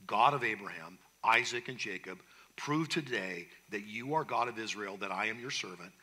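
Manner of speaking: low, soft narrated prayer; praying. A narrator's reading. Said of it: "Elijah prays".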